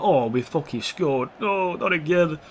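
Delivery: slow, mildly put-on letdown of a fan; mock disappointment. Player mimicking fans who just saw a goal, mock-disappointed. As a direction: imitate a let-down crowd, drawn out. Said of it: "fans look disappointed".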